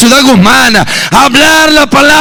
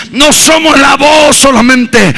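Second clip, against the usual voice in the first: preaching shout. Acted. Preacher shouts to the congregation. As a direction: hammer the line at the church.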